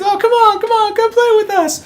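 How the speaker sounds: put-on begging kids shouting to play; eager kids. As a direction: call out like a pushy little kid. Kids pleading.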